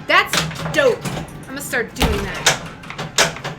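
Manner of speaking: casually imitating herself; trying-to-be-cool. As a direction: say it like you think it's cool. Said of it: "I should never use the word dope".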